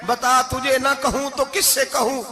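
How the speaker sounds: mock weeping prayer. Preacher acting a weeping supplicant, rising from hushed to crying out. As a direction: plead with God, starting hushed and rising to a cry. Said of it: "जब मैं यूं रो के दुआ करूंगा".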